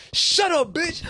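high, sharp mock yell at her; retold angry snap. Drunk guy snapping at his friend's girlfriend, mock yell.

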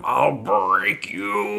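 drawn-out mock yell; overacted, slow mock scream. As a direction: stretch it out like a hammed-up threat. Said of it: "I screamed at them".

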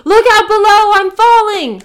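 loud, high, hearty bellow; strong and lusty. Acted. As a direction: belt it out with gusto. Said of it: "strong and lusty".

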